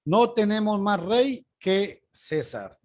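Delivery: slow, weighty declaration with stress on "No". Shown as a demonstration. Priests declaring to Pilate, said slowly and firmly. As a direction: lean on "No" and take it slowly. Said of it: "Denme un segundito".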